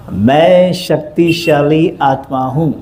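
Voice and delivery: slow, low, weighty affirmation. Shown as a demonstration. Preacher models the line for the audience, slow solemn affirmation. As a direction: lead the crowd's chant slowly. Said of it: "जोर से बोलो सभी".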